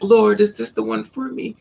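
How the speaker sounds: high, wide-eyed plea to the Lord; high hopeful prayer. Retold or imitated. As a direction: voice lifted high, dreamy and hopeful.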